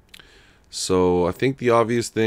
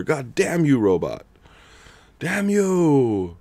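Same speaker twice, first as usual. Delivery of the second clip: mock curse; 6 semitones higher, slower than usual. Cursing the bot in fun.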